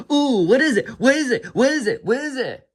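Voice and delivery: high, excited little cub begging; eager cub voice. Retold or imitated. Young Simba begging his uncle, high and eager. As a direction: pester him like an eager young lion cub. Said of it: "Simba says".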